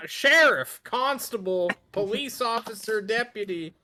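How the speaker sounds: put-on southern lawman voice; southern accent. Wick introducing himself to the florist, southern accent. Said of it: "I have a southern accent now".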